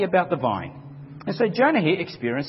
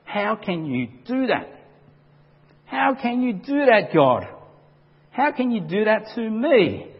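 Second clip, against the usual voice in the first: furious; 4 semitones higher than usual. Retold or imitated. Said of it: "he's furious with God".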